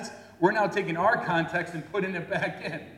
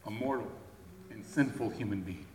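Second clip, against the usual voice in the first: humble answer; 3 semitones lower, 8 dB quieter than usual. Retold or imitated.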